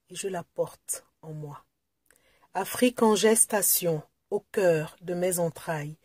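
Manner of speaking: measured, hushed line endings and deliberate pauses; poem recitation. Acted. Poet reading a love poem to Africa, measured recitation. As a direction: recite it solemnly, letting each phrase fall away.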